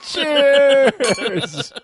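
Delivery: high, long-drawn "cheers"; festive toast. Real, not acted. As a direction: sing out the toast, stretched long. Hosts raise a festive toast.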